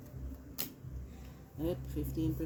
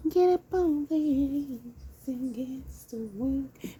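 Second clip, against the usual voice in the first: high, loud, slow preacher call; hammed-up church call to get to work; loud mock preacher; 8 semitones higher, 5 dB louder, slower than usual. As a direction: shout it like a revival preacher. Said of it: "Got me sounding like a Verizon".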